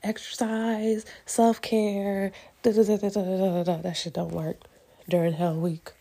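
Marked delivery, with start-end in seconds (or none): 0.0-3.8 mocking. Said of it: "everybody's like".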